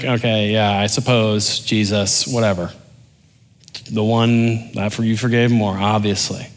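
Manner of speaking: mildly dismissive, muttered-off concession; sarcastic. Acted. Pharisee grudgingly giving Jesus the answer, sarcastic. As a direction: brush him off with dry sarcasm. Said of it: "hear the sarcasm".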